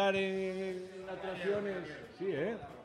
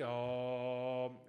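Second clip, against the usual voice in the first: low, soft, drawn-out "oh"; meditation chant; 5 semitones lower, 7 dB quieter than usual. Shown as a demonstration. Host showing a teen how people meditate, low chant. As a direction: intone a quiet meditative drone. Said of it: "mediten así".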